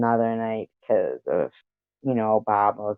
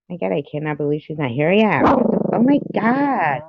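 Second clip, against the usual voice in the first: can't believe what the dog just did; exasperated disbelief; 6 semitones higher, 3 dB louder than usual. Real, not acted. Scolding her dog, high exasperated disbelief.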